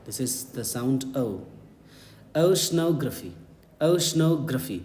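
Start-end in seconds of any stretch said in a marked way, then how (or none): 2.4-4.8 careful, repeated teacher's model of "oceanography"; correct pronunciation. Shown as a demonstration. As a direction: say "oceanography" with a gliding English oh and "gruh-fee" ending. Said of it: "this is the correct pronunciation".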